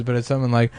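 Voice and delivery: usual speaking voice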